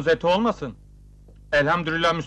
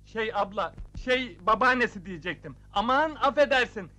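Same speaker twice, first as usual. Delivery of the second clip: higher, softened backpedalling; flustered apology; 4 semitones higher, 3 dB quieter than usual. Acted. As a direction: fumble an apology to placate her. Backpedalling after insulting the woman's age. (mahcup, alttan alarak)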